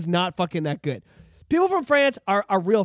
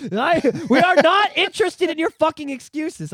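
higher, laughing, emphatic refusal; mock French defiance; 7 semitones higher, 4 dB louder than usual. French people rejecting government excuses, mock defiant.

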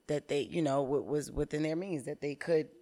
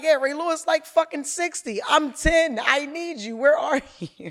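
put-on much higher, louder pleading kid; imitating needy child; 10 semitones higher, 12 dB louder than usual. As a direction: whine for mom like a hurt ten-year-old. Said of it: "And it's like".

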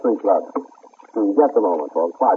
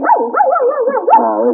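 cooing; 4 dB louder than usual. Acted. Cooing at a cute dog.

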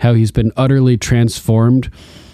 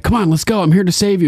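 mimicking Yara; 8 semitones higher, faster than usual.

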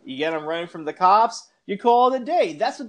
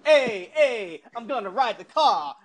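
mock-dramatic movie line, lightly voiced; mock Aaron Paul; 3 semitones higher than usual. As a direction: send up a brooding racer's line. Mocking Aaron Paul's tough storyline.

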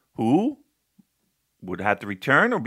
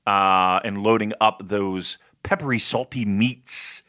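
slow, savoring food description; drawn-out, deliberate descriptive voice; describing voice; 3 semitones lower, slower than usual. Real, not acted. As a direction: describe it slowly, lingering on each morsel. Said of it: "My describing voice".

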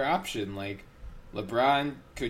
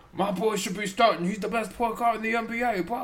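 mocking whiny quote; 11 semitones higher than usual. Mock quote of rival coach.

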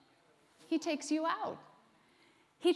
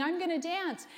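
higher-pitched mock excitement; super excited; 5 semitones higher than usual. Preacher imitating a churchgoer at a service, super excited. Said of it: "get super excited in a service".

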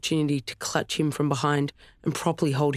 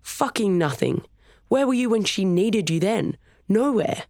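rising, higher furious yell; 6 semitones higher than usual. A narrator's reading. Storm yelling at Chris, rage climbing higher. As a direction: build the yell to the last word. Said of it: "he yelled".

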